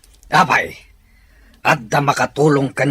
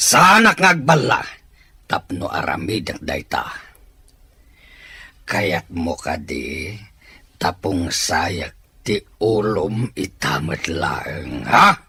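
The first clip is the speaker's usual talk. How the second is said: menacing threat; 4 semitones lower than usual. Acted. Villain threatens captive chief.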